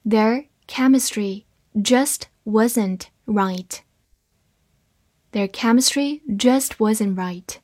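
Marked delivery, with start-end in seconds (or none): 0.0-3.8 very slow, one word at a time; slow reading. Shown as a demonstration. Teacher models the second sentence for learners, slow reading. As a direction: read slowly, pausing between the words. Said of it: "慢慢来读".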